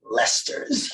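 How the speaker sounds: offhand, understated one-word answer; a touch of casual glibness; slightly glib. Acted. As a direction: toss it off like no big deal. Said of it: "a slight glibness in his tone".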